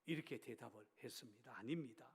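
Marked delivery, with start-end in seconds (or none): 1.6-2.1 composed, softer and understated answer; low-key calm reply; calm, matter-of-fact. Retold or imitated. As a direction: answer quietly, without agitation. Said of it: "담담한 말투로".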